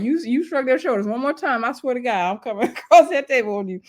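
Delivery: laughing through a retold threat. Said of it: "It was so funny".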